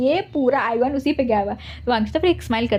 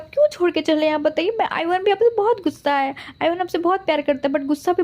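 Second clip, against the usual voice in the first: put-on child holding back tears; 5 semitones higher than usual. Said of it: "अंदर रोते बोलता है".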